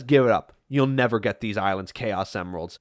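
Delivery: low, menacing villain voice; Robotnik voice. Retold or imitated. Robotnik gloating at Sonic, in a low villain voice. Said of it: "Robotnik says".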